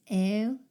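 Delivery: "ew" as an open gliding eh-oo; Yurok vowel sound. Shown as a demonstration. Teacher reminds learners what to listen for, vowel demo. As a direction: draw out "ew" as one glide. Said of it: "keep an ear out for those".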